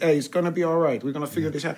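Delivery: put-on a light, quick Dutch accent, jolly and easygoing. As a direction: do a laid-back jolly Dutch cameraman in a Dutch accent. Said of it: "that's a good Dutch accent".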